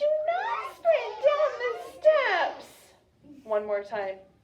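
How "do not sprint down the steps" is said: put-on very high, loud, sing-song babyish voice. Repeating a practice sentence as instructed, in a baby voice. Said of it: "Say it in a baby voice".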